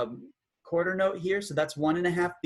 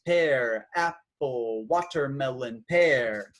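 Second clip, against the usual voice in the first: rhythmic fruit names; much slower than usual. Shown as a demonstration. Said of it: "fruit names".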